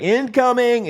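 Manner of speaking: sharp high call of incoming fire; shouted warning. Retold or imitated. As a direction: bark it out like a drill alarm.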